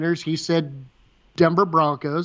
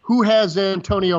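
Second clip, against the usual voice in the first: pitched higher, urgent insisting; excited insisting; 4 semitones higher than usual. Retold or imitated. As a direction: swear it's his exact words. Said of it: "these are his words".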